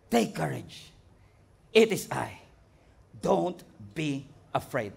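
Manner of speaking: soft, slow and calming; reassuring Jesus. Acted. Jesus speaking to terrified disciples, soft and reassuring. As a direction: settle frightened men gently.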